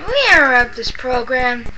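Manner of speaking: put-on old radio announcer. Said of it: "say what you were saying a minute ago".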